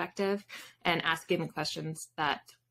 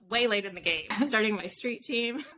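repeats the phrase through a real laugh, a bit higher; laughing at herself; 4 semitones higher than usual. Real, not acted. Guest laughing at herself about starting a street team so late, laughing. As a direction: laugh out the words, amused at being so late.

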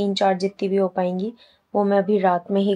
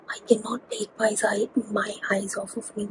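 soft whisper; 7 dB quieter than usual. Real, not acted. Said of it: "मैं इतना ज़्यादा धीरे बोल रही हूँ".

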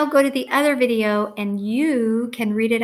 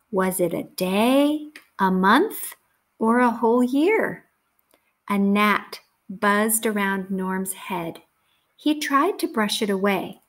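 measured, clearly phrased storybook reading; story read to children. A narrator's reading. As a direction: read it out to a class of young children.

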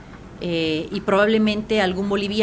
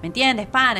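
light, raised Venezuelan host lilt on pana; a hint of Venezuelan slang accent; 4 semitones higher than usual. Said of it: "están conduciendo así el programa".

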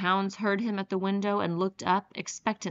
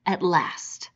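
whispered. A narrator's reading. General's sinister toast ending.

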